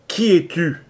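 loud, high puzzled call. Acted. Latimer peering down, calling out puzzled. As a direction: call out the question into the hatch.

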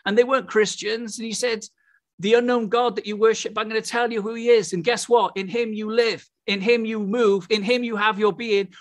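fervent preaching. Real, not acted. Preacher telling the congregation Paul's message to the Athenians, fervent preaching.

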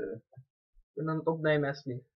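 smacking while chewing popcorn; eating popcorn. Real, not acted. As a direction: talk through a mouthful of popcorn. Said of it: "Dan loop ik alleen maar te, te smakken".

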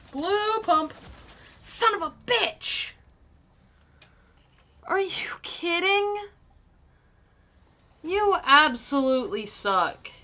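loud, drawn-out furious shouts; angry yelling. Real, not acted. Gamer yelling at the player who shot him, furious. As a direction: blast the other player with rage.

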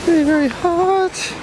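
high yelps over burning sand; hopping on scorching sand; walking on hot sand. Real, not acted. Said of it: "the sand is hot".

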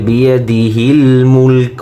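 "মুলক" closed on k with no final vowel; "বিয়াদিহিল মুলক" ending in a bare consonant; pausal ending. Shown as a demonstration. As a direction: stop dead on the k of "মুলক". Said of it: "যদি আমরা ওকফ করি".

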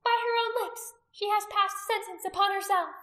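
high, loud, triumphant verdict; ringing high-pitched condemnation; pronouncing sentence. A narrator's reading. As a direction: proclaim judgment to the crowd.

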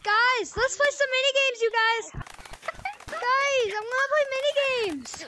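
put-on eager little kid with a trashy mic; toy echo microphone. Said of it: "a kid who just has his dollar store mic".

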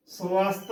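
ਸਵਸਥ said su-ast, short u after the first ਸ; correct pronunciation. Shown as a demonstration. Teacher models the word for learners, ਸਵਸਥ as su-ast. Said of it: "ਉਚਾਰਨ ਕਰਨਾ ਹੈ".

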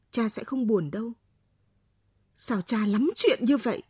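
usual speaking voice

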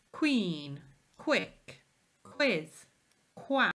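qu words said clearly as kw; teacher modelling qu words; model words. Shown as a demonstration. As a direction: say queen, quick, quiz, quack with a crisp kw start. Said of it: "Can you say those words?".

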